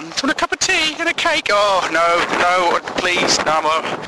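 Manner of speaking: high, wailing mock housewife; hammed-up high-pitched upset; distraught widow. Widow offering the bearer of bad news tea, high and distraught.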